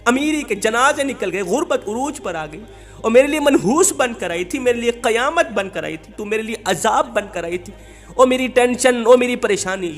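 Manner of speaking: preacher hams up a husband cursing his wife; imitating angry husband. Preacher voicing husband berating wife, mock angry rant. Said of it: "اس کا شوہر اسے مارتا ... ڈانٹتا".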